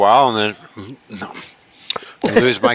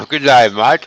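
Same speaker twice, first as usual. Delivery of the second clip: bad Australian accent; 4 dB louder than usual. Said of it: "It was a piss poor try".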